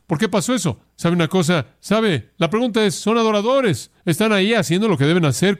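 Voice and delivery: rising preacher intensity. Real, not acted. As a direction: drive the question up with fervor.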